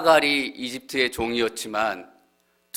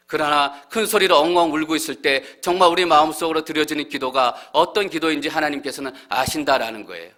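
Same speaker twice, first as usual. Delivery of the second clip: normal talking voice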